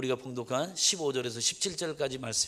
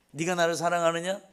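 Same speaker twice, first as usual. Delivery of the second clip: interrogating; 3 semitones higher, 4 dB louder than usual. Retold or imitated. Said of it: "이렇게 따져 묻는 줄 알았어요".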